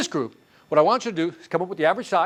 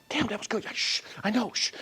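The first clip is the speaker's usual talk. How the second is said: inner voice; 5 semitones higher, 7 dB quieter than usual. Retold or imitated. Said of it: "Your voice is like".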